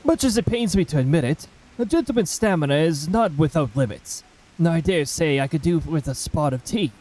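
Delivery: lightly voiced refined English gentleman; a hint of a tired, proper gent asking for tea; mildly put-on posh gentleman, weary. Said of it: "It's more voice acting time".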